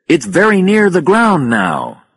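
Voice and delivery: high, loud and drawn out; urgent warning. A narrator's reading. Warning of rising lava.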